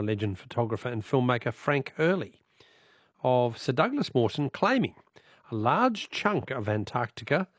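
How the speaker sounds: measured, emphatic presenter read; deliberate, projected history-segment narration; scripted radio intro. Acted. Radio host introducing an archive clip to listeners, measured presenter read.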